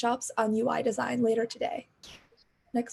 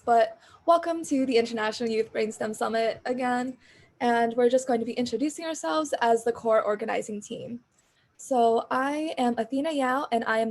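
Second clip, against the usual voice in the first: louder, projecting for the call; speaking up. Real, not acted. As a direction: push the voice out so everyone hears. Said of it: "so I'm just gonna speak louder".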